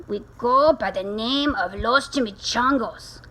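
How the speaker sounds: put-on mildly growled Spanish-accented reply; a touch of growl, with Spanish flair; growling bandit. Gang leader naming his band, growling. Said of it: "growled Don Diego".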